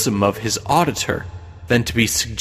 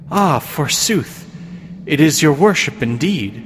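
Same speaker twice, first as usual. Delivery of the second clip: imperious plummy grande dame; 3 semitones higher than usual. Acted. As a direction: play a haughty pious old lady. Goody Cloyes greets the devil.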